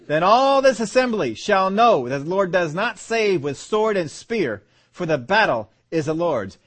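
bold, slow-swelling Bible reading; scripture reading with rising fervour. Acted. Preacher declaiming David's challenge to the Philistine. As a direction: proclaim David's words to the giant.

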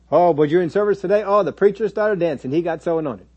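mildly hammed-up churchgoer gush. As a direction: marvel like an impressed congregant. Mimics gushing churchgoer.

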